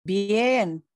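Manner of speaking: talking with food in mouth; words round a bite of food; chewing while talking. Real, not acted. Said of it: "es que estaba comiendo".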